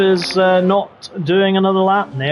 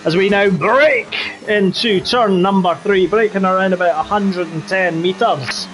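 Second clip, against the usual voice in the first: put-on Scottish accent. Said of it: "do the rest of the race in the Scottish accent".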